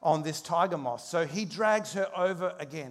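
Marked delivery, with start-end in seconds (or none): 0.0-1.0 pleading husband. Retold or imitated. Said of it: "And he says".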